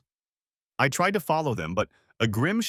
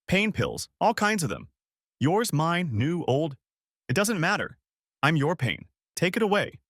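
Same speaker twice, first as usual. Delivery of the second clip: high, loopy drugged voice; light, giggling and dazed; drugged wife giggling; giggly drugged; 6 semitones higher than usual. Acted. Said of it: "She giggled".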